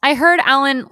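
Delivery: a high, insistent put-on voice of a contestant; mimicking a contestant. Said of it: "she was just like".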